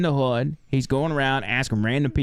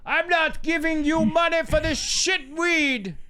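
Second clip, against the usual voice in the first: put-on high, slow, outraged drunk voice; a drunk man refusing to pay, squealing high; drunk yelling back; 14 semitones higher, slower than usual. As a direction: stretch it out, pitched way up, indignant. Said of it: "Gandhi is yelling back at the guy".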